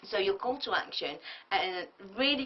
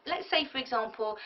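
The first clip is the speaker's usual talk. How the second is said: ordinary talk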